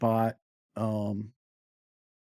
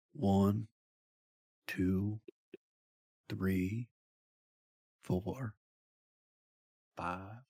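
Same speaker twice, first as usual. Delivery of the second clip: slow murmured count, fading softer; slight murmur; 3 semitones lower, 6 dB quieter, much slower than usual. Acted. Thomas counting as everyone settles down for the evening, murmuring. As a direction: count low and drowsily, letting it trail away. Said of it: "slight murmur of Thomas's voice".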